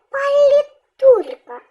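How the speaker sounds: slow палітурка with a strong У; stress on the У. Shown as a demonstration. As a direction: draw out and punch ТУР in "палітурка". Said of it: "наголос на У".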